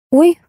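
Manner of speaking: short mild "oy" exclamation; startled cry. A narrator's reading. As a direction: let out a small startled yelp. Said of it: "крикнула я". (короткий вскрик «ой»)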